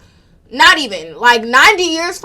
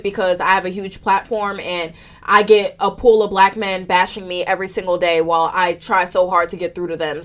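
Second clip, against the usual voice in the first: tearful; 5 semitones lower than usual. Real, not acted. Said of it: "I'm gonna go wipe my tears".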